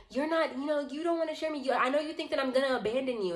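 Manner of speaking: imitating her high-pitched agitation; retold yelling. Woman accusing storyteller over abandonment, retold yelling. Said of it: "she was yelling at me".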